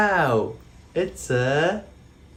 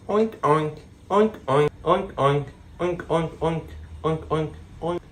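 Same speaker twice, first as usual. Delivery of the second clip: lightly voiced pig oinks; faster than usual. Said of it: "what sound a pig makes".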